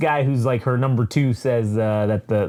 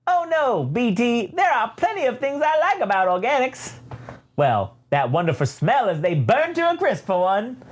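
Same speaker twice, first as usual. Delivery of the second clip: high prissy droid voice, pitched way up; Triple Zero voice; 7 semitones higher than usual. Retold or imitated. Retelling the Star Wars comic, voicing the droid Triple Zero. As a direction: play the polite murderous protocol droid. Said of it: "he says".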